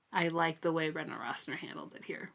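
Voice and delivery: whispered aside. Real, not acted. Quiet aside about the author.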